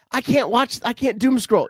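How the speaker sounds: high-pitched mock lament; mock complaint. Co-host imitates people who lost TikTok, high mock complaining. Voicing people upset over app ban.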